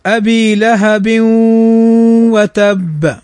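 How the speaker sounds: "أبي لهب وتب" with the tanween merged into the waw with ghunna; tajweed recitation. Shown as a demonstration. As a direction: recite "لهب وتب" as "لهبوّتب" with nasal merging. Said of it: "فنقول".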